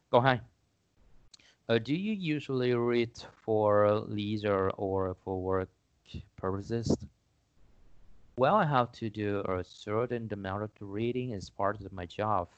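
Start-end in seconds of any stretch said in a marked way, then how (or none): 1.8-12.5 slow, deliberate English read-out; careful classroom English, unhurried; reading sample question and answer. Acted. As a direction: read it out measuredly for learners.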